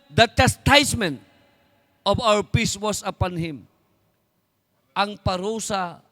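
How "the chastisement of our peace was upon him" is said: slow, solemn Bible reading; scripture reading. Acted. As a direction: read each phrase slowly, weighing it. Quotes scripture slowly. (mabagal at taimtim na pagbasa ng Bibliya)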